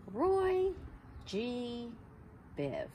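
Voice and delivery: Roy sung out high, then G, Biv. Shown as a demonstration. Teacher gives kids a memory trick, emphatic. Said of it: "think of".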